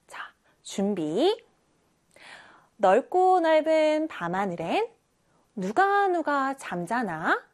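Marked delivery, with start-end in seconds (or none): 2.8-7.4 call-and-response reading. Shown as a demonstration. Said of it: "선생님이 빨간색 글씨를 읽을 테니까".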